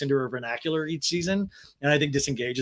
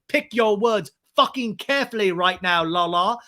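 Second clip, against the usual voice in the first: slow, louder put-on threat; mock menacing James; 4 semitones higher, 6 dB louder, slower than usual. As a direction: warn her in a hammed-up growl. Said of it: "And James is like".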